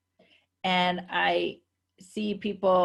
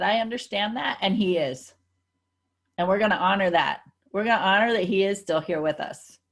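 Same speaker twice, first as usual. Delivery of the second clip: smiling conviction. Retold or imitated. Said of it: "I say it with a smile, and I say it with conviction".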